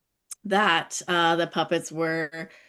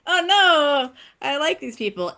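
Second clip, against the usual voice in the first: excited; 8 semitones higher, 4 dB louder, slower than usual. Retold or imitated. Delighted reaction retold, laughing.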